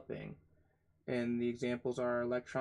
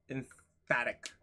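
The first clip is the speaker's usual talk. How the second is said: "emphatic" split after "em", punch on "-phat-"; savoring the word. Shown as a demonstration. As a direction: relish "emphatic", leaning on the middle syllable. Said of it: "I love saying it".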